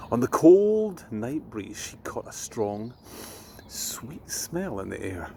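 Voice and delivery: put-on gentle storyteller reading to children; bedtime story reading. A narrator's reading.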